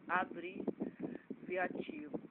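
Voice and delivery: "Abreviativo" drawn out slowly, piece by piece; slow careful repeat. Real, not acted. Teacher repeating a term from the evangelism course, "Abreviativo" said very slowly. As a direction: stretch "Abreviativo" right out, breaking it up.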